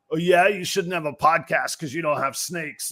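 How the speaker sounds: lightly done wrestling promo bro; a hint of a pumped-up wrestler. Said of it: "that's my pro wrestler bro voice".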